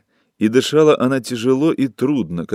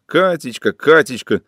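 a light mock of his pleading; mocking mimicry; 5 semitones higher, 4 dB louder than usual. A narrator's reading. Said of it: "передразнила она".

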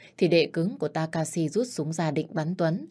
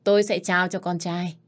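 a raised, ringing announcement; proclaiming loudly; 3 semitones higher, 4 dB louder than usual. Acted. The old boss announcing his heir to the clan, loudly. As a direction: call it out so the whole hall hears. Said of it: "Ông ta vừa hô lớn".

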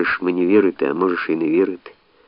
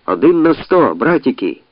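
mocking laugh; 7 semitones higher, 4 dB louder than usual. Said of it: "реготали з юрби".

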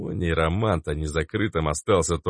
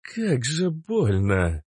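slow, higher, aching; mild pained complaint; 5 semitones higher, much slower than usual. A narrator's reading. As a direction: let the pain pull the words out. Cobra complains of pain. (тихая жалоба от боли)

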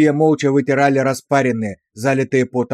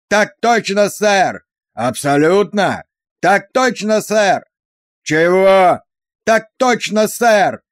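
higher, louder roar building to a bellow; platoon roaring; 5 semitones higher, 3 dB louder, slower than usual. A narrator's reading. A platoon roaring its answer at the sergeant, building louder. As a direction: answer ever louder, rattling the windows. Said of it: "Взвод ревел уже так, что стёкла дрожали".

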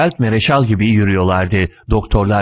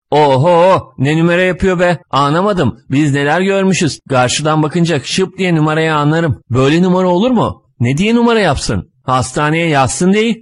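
know-it-all scoff, pitched up; sly mocking; 6 semitones higher than usual. A narrator's reading. Sly attendant mocks the patient's pain, scoffing. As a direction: wave it off like he's seen it all. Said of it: "Kurnaz kurnaz güldü".

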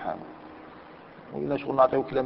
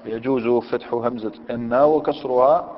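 slow reading; slower than usual. Shown as a demonstration. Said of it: "يقول لك أنا".

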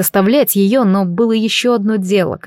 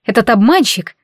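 gasping; 3 semitones higher than usual. Acted. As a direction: gasp out the name in shock. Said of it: "ахнула Астерия".

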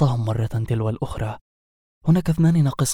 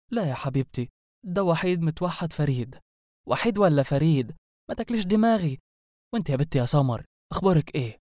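put-on high, swooping neighbourhood-girl chatter; gossiping girlfriends; 4 semitones higher, faster than usual. Two girls catching up on engagement news, gossipy chatter. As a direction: play two girlfriends gushing and nosy in dialect.

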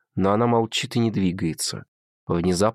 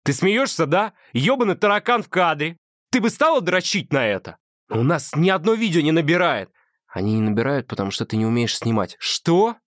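Adam's voice pitched higher, needling and sneering; irritated boyfriend; 8 semitones higher, 3 dB louder than usual. Acted. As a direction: play the mocking, fed-up partner. Adam's voice in the scene.

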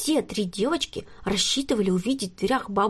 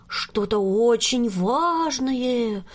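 plain reading voice

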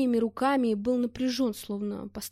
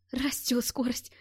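excited shout; 4 semitones higher, slower than usual. Acted. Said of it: "крикнул Гушков".

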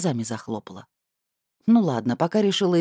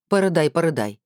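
cross; 2 semitones higher than usual. Acted. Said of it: "сердито сказала я".

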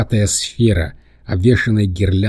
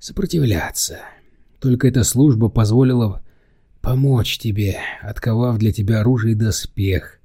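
resigned smith. Acted. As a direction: let a bound servant sound resigned. Smith pleads his servitude.

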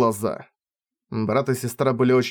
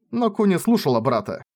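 ordinary delivery, nothing marked

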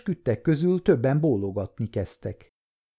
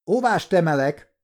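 higher-pitched exclaimed objection; cried objection; 6 semitones higher, 3 dB louder than usual. A narrator's reading. Defence lawyer objecting again during testimony, crying out moderately. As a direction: call out a protest, without full shouting. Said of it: "kiáltott Levin újra".

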